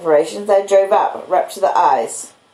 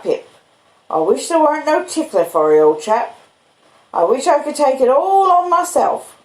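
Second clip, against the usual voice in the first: higher, gentle country blacksmith voice; the kindly blacksmith Joe speaking earnestly to Pip; humble, earnest Joe; Joe's voice; 7 semitones higher than usual. Acted.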